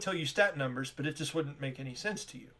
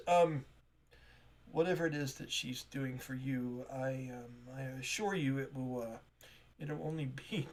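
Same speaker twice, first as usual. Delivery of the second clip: softer, hesitant apologetic shop clerk; flustered shopkeeper; 2 semitones lower, 5 dB quieter than usual. Acted. Tamara apologizing to strangers, softly flustered. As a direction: stumble politely, a little embarrassed.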